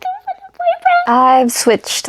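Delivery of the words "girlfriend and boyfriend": tiny, very high squeal; overwhelmed high-pitched squeak; giddy squeak. Real, not acted. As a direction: squeak it out at the top of the voice. Repeats it, even higher.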